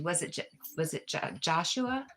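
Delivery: real stumble over a name; stuttering. Real, not acted. Trying to recall a user's name, stuttering. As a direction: trip on the first syllable, then get it out. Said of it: "I don't know why I stuttered".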